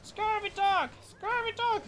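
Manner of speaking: very high, loud parrot squawk; hammed-up parrot insult. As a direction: screech it like a pirate's parrot. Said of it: "I'm doing a parrot voice acting now".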